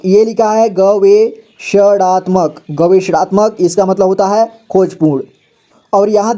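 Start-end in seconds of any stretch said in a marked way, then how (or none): 0.7-3.5 slow careful reading. Shown as a demonstration. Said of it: "यहाँ पर देखिए गवेषणात्मक".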